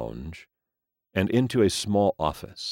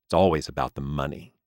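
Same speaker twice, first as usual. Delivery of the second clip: bitter; 3 semitones lower, faster than usual. Acted. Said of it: "thought Wizard bitterly".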